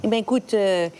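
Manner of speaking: mock indignant pied-noir mother, pitch climbing; scolding mother. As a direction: act out a mother laying into her grown son. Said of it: "Et elle lui dit". (mère pied-noir indignée, voix qui monte)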